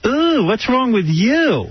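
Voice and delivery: put-on high, drawn-out Romanian-accented ooh; mocking Romanian accent. Retelling a woman's question, mocking Romanian accent. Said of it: "I hate that accent anyway".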